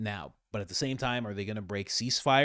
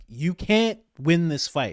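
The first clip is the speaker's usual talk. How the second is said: Trump voice; 6 semitones higher, 6 dB louder, slower than usual. Retold or imitated. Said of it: "he was trying to talk to a drunk friend".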